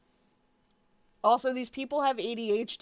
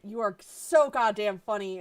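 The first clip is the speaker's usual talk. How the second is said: ordinary talk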